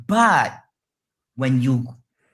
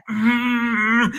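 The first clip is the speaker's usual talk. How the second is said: frustrated groan; 8 semitones higher than usual. Acted. Acting out helpless frustration.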